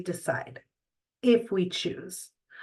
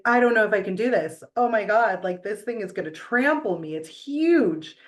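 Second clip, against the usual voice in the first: scared daughter; faster than usual. Retold or imitated. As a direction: rattle it off like a frightened kid next to a huge horse. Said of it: "and she was scared".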